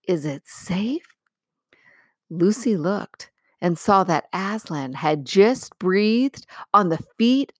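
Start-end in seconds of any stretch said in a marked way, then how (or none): 0.1-1.2 high, hesitant and uneasy; anxious girl asking if it's safe; worried. Acted. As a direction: voice the doubt creeping in. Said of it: "said Lucy in a different tone".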